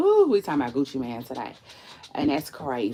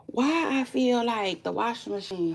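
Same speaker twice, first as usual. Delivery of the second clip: unvoiced secret aside; whisper; 6 semitones higher than usual. Real, not acted. Whispering an aside to viewers about the washing machine. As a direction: whisper it to the camera.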